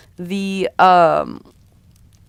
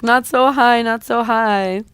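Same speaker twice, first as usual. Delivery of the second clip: higher-pitched, held-back alarm; mild panic; 4 semitones higher than usual. Acted. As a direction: protest nervously without screaming. She screams, held back, during flight.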